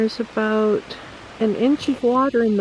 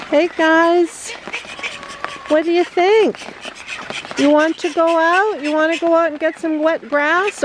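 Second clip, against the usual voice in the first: high, sing-song pet talk; 5 semitones higher than usual. Real, not acted. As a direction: coo at the birds like babies. Cooing at the birds.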